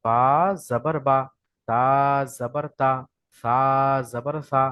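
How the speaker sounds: জাবার বা short, no lengthening; no drawn vowel. Shown as a demonstration. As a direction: say বা, তা, সা crisply without stretching. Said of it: "হারাকাতের পড়ায় কোনো টান হয় না". (টান ছাড়া ছোট উচ্চারণ)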